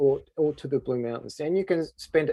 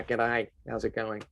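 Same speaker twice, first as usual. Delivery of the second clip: put-on a light, lower, quieter stereotypical Australian accent; 4 semitones lower, 4 dB quieter than usual. Guide describing how Queenslanders talk, in a lightly broad Australian accent. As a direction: toss off a broad Aussie greeting, only lightly. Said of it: "stereotypical Australian".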